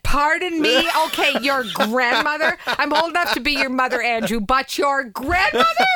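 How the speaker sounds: retold comeback, slow incredulous question; mock indignation. Retelling her reply to Andrew's grandmother jab, mock indignant. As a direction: act out being affronted, stretching the key word.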